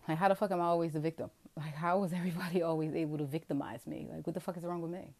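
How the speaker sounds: loud exasperated vent; exasperated outburst. Real, not acted. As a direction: throw the question out in disbelief.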